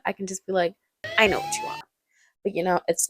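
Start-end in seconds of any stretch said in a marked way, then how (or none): 1.2-1.8 squeaky-high mock knowing voice; high-pitched knowing quip. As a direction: jump way up high, teasing. Mock knowing modern reaction.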